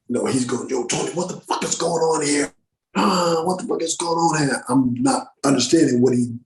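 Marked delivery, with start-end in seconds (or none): 0.7-4.6 higher-pitched imitation of an exasperated director; mock yell without much volume; retold yelling. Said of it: "He's fucking screaming and yelling".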